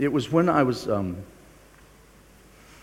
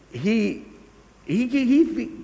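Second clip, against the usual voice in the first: laughing; 12 semitones higher, 4 dB louder, much slower than usual. Real, not acted. Laughing at his own confession.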